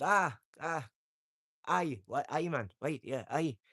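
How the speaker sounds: imitated Scottish and northern accent; mock Scottish accent. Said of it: "or up Scotland".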